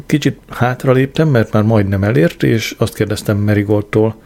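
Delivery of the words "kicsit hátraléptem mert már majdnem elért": usual speaking voice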